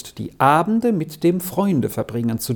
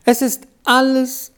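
high, slow wail of despair through tears; sobbing; 8 semitones higher, slower than usual. A narrator's reading. Beni tells Efeli all is over, sobbing high and slow. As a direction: sob it out, everything lost. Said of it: "schluchzte er".

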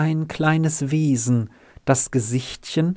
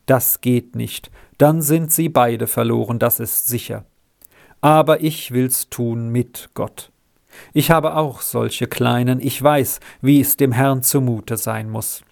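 calm. Acted. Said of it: "sagte er ruhig".

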